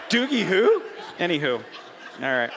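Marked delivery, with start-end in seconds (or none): 0.1-0.8 higher, louder "Doogie who?"; mock kids shout. Imitating kids who don't know Doogie, mock shout. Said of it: "The kids are like".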